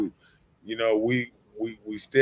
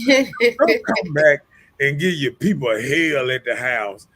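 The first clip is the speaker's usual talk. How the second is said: mock rant; 3 semitones higher, 5 dB louder than usual. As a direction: lean in and scold them. Ranting at two-faced people.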